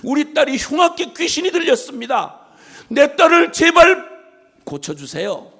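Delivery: high cry on the name, pleading; a desperate mother's plea. Retold or imitated. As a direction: beg Jesus for your daughter. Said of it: "그가 외치고 있는 거예요".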